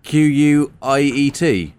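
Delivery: letter by letter; spelling it out. Shown as a demonstration. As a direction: spell each letter out clearly. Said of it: "We're doing a little spelling bee".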